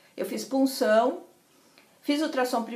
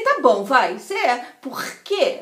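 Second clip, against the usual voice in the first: quarrelsome; 6 dB louder than usual. Retold or imitated. Snaps at the friend who keeps asking, irritated. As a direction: give in crossly, then challenge. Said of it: "Eu brinquei com ela".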